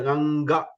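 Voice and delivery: "Ganga" with throat and nose sounding together; joined throat-nose sound. Shown as a demonstration. Teacher showing both places together, nasal "Ganga". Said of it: "It should come together".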